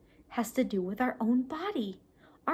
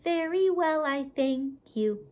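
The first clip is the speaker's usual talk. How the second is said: puppet voice; 3 semitones higher, slower than usual. Shown as a demonstration. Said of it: "they're gonna talk to each other".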